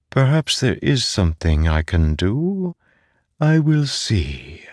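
a hint of a disembodied voice, drawing out the ending; otherworldly voice. The mind voice answers Zeth.

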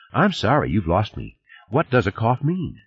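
a hint of a puzzled woman; Fernandez, baffled. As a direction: ask him to explain, baffled.

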